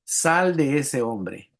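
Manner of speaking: each word drawn out slow, commanding; slow stern command. Retold or imitated. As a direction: order the spirit out, unhurried and firm. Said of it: "Respondió Jesús". (orden lenta y firme de Jesús)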